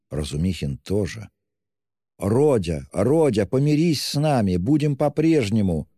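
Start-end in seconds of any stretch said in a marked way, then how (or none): 2.2-5.9 high, pleading cry; pleading exclamation. A narrator's reading. Poor mother pleading with her son, high cry. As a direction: beg him to make peace, pitch rising. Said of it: "воскликнула бедная мать".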